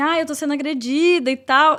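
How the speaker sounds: small, restrained put-on outcry. Retelling how she started shouting in the middle of the event: imitating someone shouting. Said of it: "ela começou a gritar no meio do evento".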